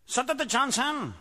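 American general. Acted. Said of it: "general norteamericano".

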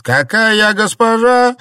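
high, loud bitter cry; exclaiming. A narrator's reading. Wife crying out bitterly at her maid, loud and high. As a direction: throw the word back in protest. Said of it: "воскликнула Цзиньгуй".

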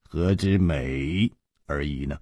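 low, soft, unhurried hero; smiling. A narrator's reading. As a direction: say it slowly and softly, with a smile. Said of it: "楚留香笑着说". (含笑低声慢语)

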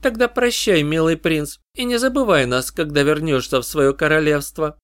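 high, eerie inhuman chorus; eldritch horror. Acted. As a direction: proclaim it as a chorus of creatures. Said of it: "хор нечеловеческих голосов не возгласил".

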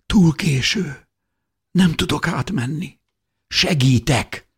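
very high, drawn-out anguish; panicked despair. A narrator's reading. Beloved cannot get through the fence, despairing. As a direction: wail helplessly in short bursts.

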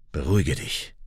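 low, soft calming words; soothing. A narrator's reading. Vahan soothing angry Raik, calm. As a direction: settle him down, softly.

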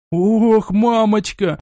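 громкий испуганный вскрик, выше; ахнуть от страха, громче; испуганный возглас. Acted. Испуг при виде тварей. (испуганно ахнуть, выше и громче)

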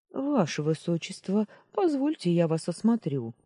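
lightly voiced anxious old doctor; a hint of a concerned old healer; worried old man. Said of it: "Обеспокоенный старческий голос". (обеспокоенный старческий голос)

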